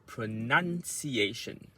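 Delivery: pronunciation with the nun syllable punched; word stress demo. Shown as a demonstration. Coach showing exam learners word stress, nun stressed in pronunciation. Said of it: "So you have to say".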